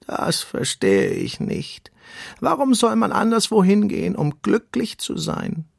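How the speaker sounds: slow, ponderous turtle, rising as it questions; deep-voiced turtle. A narrator's reading. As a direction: puzzle it out slowly as an old-world turtle. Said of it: "eine tiefe Stimme".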